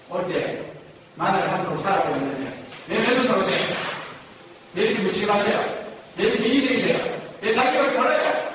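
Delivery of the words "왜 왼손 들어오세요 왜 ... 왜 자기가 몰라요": raised-pitch string of accusations; accusing questions, acted out; mock reproach. Shown as a demonstration. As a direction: fire off demonstration complaints, pitched up. Repeats accusing examples.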